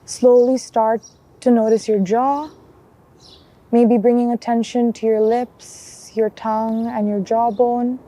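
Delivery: calm guided body scan with long pauses; unhurried mindfulness guide, even and measured; guided meditation. Acted. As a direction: lead them gently through a check-in, leaving space between phrases.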